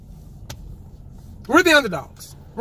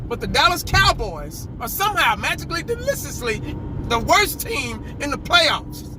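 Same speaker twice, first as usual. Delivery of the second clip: mocking outrage; 4 semitones higher than usual. Real, not acted. Mocking the pundits' verdict.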